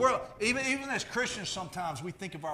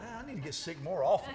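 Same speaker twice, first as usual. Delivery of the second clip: laughing; 3 semitones higher than usual. Retold or imitated. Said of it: "I'm like".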